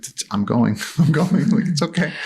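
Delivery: high, light mock reassurance; half-laughing, hurried placating. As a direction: lift the voice to soothe a huge animal. Placating the elephant while leaving.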